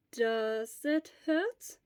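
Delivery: put-on slow, gentle questions from an old nurse; lightly voiced elderly nurse. Elderly school nurse gently questions a feverish boy. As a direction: ask slowly and calmly, like a school nurse.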